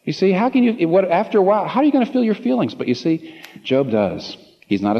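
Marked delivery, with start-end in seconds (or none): 0.1-2.7 impassioned challenge. Real, not acted. Impassioned rhetorical question.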